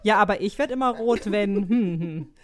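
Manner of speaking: laughing, playing the objector; giggling "yes, but" comeback; laughing mock reply.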